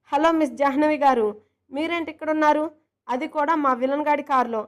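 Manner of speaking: loud, lively mock greeting; teasing surprise. Surya teasing Jaanu in the villain's car, loud and cheeky. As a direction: call out cheekily to her.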